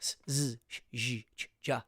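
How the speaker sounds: s, z, sh, zh, ch, ja rattled off quickly; quick diction drill; quick drill pairs. Shown as a demonstration. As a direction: run the voiceless-voiced pairs fast. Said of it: "you gotta do 'em quick".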